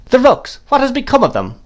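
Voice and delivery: very high-pitched, pointed question; insistent demand. A narrator's reading. Miss Betsy pressing the distracted mother, insistent.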